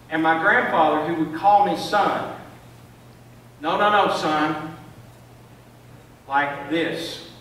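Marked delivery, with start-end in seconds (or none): 3.6-4.8 a loud, firm no, no, no; stopping the boy firmly, a grandfather's correction. Retold or imitated.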